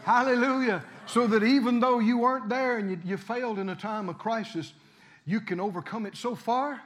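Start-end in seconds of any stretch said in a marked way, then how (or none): none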